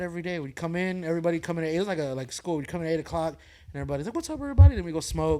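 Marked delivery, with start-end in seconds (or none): 4.2-4.8 loud, high mock group greeting; imitated hearty call to coworkers. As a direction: holler hello to the whole crew. Imitating morning greeting among coworkers.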